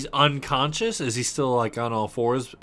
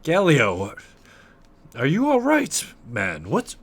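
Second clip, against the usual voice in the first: higher, halting, worried questions; lightly voiced concerned friend; 3 semitones higher than usual. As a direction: ask after a struggling friend in mild alarm. Player voices concerned character.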